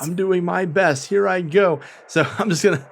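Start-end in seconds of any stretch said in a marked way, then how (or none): 0.0-1.8 slightly higher, eager, quick little voice; timid Callias. Acted. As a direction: promise to try your best, a bit hurried. Callias bravely going in.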